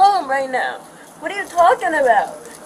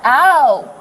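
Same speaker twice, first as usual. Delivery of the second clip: pained ow; 4 dB louder than usual. Real, not acted. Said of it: "It's hurting my wrist".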